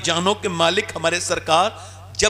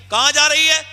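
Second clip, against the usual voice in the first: loud demand; 7 semitones higher, 6 dB louder than usual. Acted. Husband confronts packing wife.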